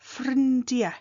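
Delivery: Ffrindiau ending in a short "eh" sound; Ffrindiau, spoken as "frin-dya-eh" with an open E at the end; colloquial E ending. Shown as a demonstration. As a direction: say Ffrindiau with the final au turned into E. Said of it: "can sound a bit like an E at the end".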